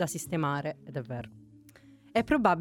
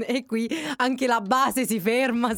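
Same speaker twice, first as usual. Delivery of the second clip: laughing; 4 semitones higher than usual. Real, not acted. Laughing while reading his sign.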